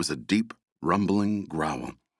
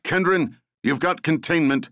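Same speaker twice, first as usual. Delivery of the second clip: higher, louder order; commanding shout; 9 semitones higher, 4 dB louder than usual. A narrator's reading. Leader shouting an order to Kendron before running off, commanding. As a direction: call the order across the clearing. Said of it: "the woman shouted".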